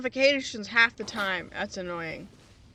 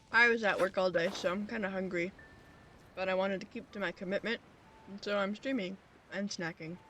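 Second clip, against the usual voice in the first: talking through a mouthful; chewing while talking; 4 dB quieter than usual. Real, not acted. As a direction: chew while speaking. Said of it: "Sorry if you hear me munching".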